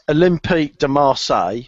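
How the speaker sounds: Olympique de Marseille in a put-on accent; put-on accent for French name. Shown as a demonstration. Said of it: "I'm doing it in that accent".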